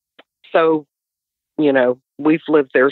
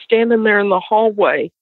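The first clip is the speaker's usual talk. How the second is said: frightened son; 6 semitones higher than usual. Retold or imitated. Son describing the goat-boy to mom, high and frightened. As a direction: voice a scared boy recounting a monster. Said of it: "and he said".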